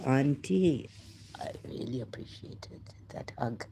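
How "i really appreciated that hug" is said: hushed. Real, not acted. Tender memory of aunt's hug.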